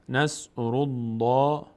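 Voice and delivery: slow, heavy, rounded "الله"; full heavy Allah. Shown as a demonstration. Teacher showing the Allah after damma, full heavy L. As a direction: draw out "الله" with a full, dark L. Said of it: "پر خوانده میشه".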